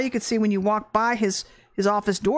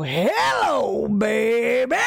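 sashaying hello; much slower than usual. Retold or imitated. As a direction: call out brightly like a teasing flirt. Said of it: "I'd sashay alongside".

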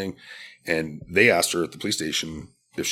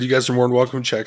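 still laughing; 6 semitones higher, 9 dB louder, faster than usual. Real, not acted. Still laughing, quoting himself.

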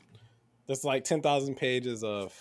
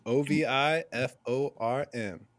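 letter by letter, spelled out; spelling it out. Shown as a demonstration. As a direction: spell each letter separately. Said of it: "Can you say the word one more time?".

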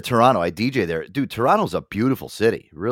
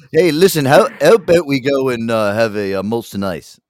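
mock Canadian accent; 6 dB louder than usual. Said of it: "when Canadians say".

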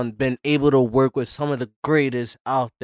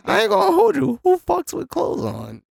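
emphatic. Real, not acted. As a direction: drive the point home. Emphatic high protest.

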